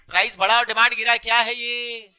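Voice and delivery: "Price बढ़ा और demand गिरा" run together fast; rapid-fire. Shown as a demonstration. Teacher hurries a hesitant class for an answer, rapid-fire. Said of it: "बोलो फटाफट".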